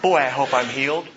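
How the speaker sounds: low, unsure aside after a plea; half-hearted hope, voice dropped; acted wavering doubt; doubtful believer. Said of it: "How often do we say".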